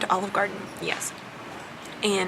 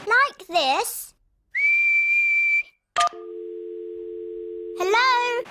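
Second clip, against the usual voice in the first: playful demo; 5 dB louder, much slower than usual. Shown as a demonstration. Demonstrates whistling, then playful call.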